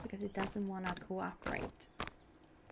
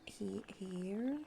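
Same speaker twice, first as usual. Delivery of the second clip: whisper; 7 dB quieter, slower than usual. Real, not acted. Placing windows, muttering.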